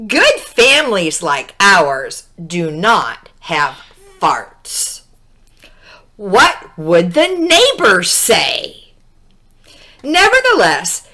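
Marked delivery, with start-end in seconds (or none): 0.1-8.9 prim mother. Acted. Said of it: "said her mother".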